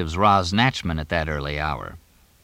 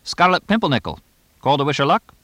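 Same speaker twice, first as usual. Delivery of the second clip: put-on high, louder English-accented trainer; 8 semitones higher, 4 dB louder, faster than usual. A narrator's reading. Trainer asking the owner about his horse, English accent. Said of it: "in his English accent".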